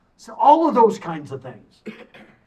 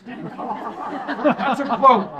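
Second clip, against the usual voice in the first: laughing; 2 semitones higher, much slower than usual. Real, not acted. Laughing at the quoted cuss.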